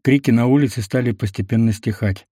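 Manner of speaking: ordinary delivery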